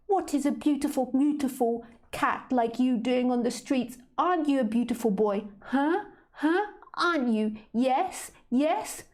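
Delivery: high-pitched, squeaky cooing at a cat; high squeaky lady voice. Acted. Tipsy woman greeting a street cat, squeaky cooing. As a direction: coo at the cat like a doting lady. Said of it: "that high-pitched, squeaky voice".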